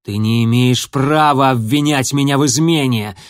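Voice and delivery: put-on young warrior shouting back at an accuser; indignant shout. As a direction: throw the charge back at him. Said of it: "ощетинившись, крикнул Огнегриф".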